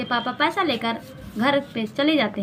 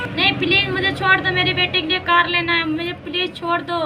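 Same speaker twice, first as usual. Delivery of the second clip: higher pleading voice; begging father; 5 semitones higher than usual. Acted. Father begging the armed thief to let him go, higher and pleading. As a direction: plead for mercy.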